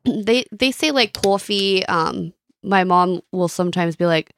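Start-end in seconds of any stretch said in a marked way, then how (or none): 1.1-1.8 coffee with a Philly vowel; Philly accent. Shown as a demonstration. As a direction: say "coffee" like a Philadelphian. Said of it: "what does a Philly accent sound like".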